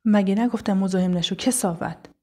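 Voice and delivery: loud, indignant challenge; angry rebuke. Acted. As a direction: tell off a harasser forcefully. Narrator confronts harasser after kicking him.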